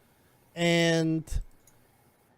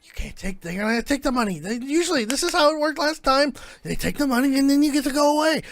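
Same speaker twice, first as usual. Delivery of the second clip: a bit higher, rushed toward the end; whiny pleading; 5 semitones higher, 4 dB louder, faster than usual. Acted. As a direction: plead that it's supposed to go this way. GM's character pleads about the deal.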